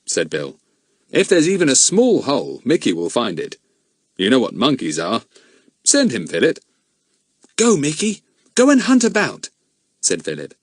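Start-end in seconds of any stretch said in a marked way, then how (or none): 1.1-6.6 a lightly voiced grown man, grave; steady adult man puzzling it out; a hint of a serious man; Bill's voice. Bill speaks. 7.6-9.5 put-on higher boy's voice urging the monkey; boy urging his monkey on; a boy's coaxing command.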